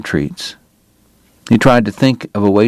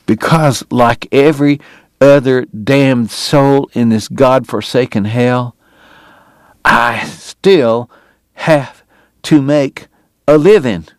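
a proud man fighting back tears; voice breaking; 4 semitones higher, slower than usual. Acted. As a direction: voice cracking higher, near tears. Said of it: "His voice broke".

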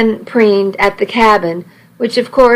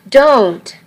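squeak; 4 semitones higher than usual. Acted. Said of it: "she squeaked".

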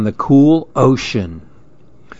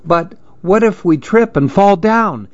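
higher-pitched, mildly worried question; nervous asking; 6 semitones higher than usual. A narrator's reading. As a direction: voice a kid's worry, understated. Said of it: "Andy asked nervously".

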